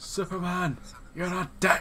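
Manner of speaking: very high-pitched, long, drawn-out bellowed shout. Narrating a game moment where he yells at Superman, retelling a shout. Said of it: "he shouts".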